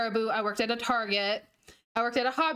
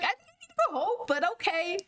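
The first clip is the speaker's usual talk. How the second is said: much higher, fast, sarcastic; mock incredulous; 6 semitones higher, faster than usual. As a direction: fire it off, half-joking. Quoting herself, traumatized.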